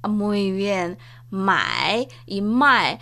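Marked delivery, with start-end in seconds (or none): 1.3-3.0 first MAE dipping low and rising, second MAE falling; contrasting tones. Shown as a demonstration. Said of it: "es un par de palabras antónimos".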